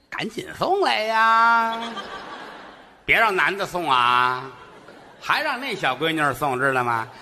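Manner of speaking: mock old man ordering takeout by phone; bossy old man ordering. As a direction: bark the order like a fussy old dad. Father phoning for takeout.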